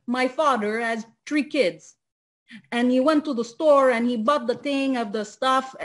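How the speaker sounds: put-on English with a light Italian accent, th said as t; light Italian-accented English, mocking how they talk. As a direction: imitate Italian speakers of English, three as tree. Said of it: "C'est vraiment accent italien".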